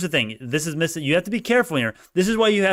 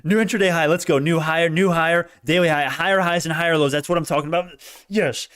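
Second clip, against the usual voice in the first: excited; 4 semitones higher than usual. Real, not acted. Celebrating new high.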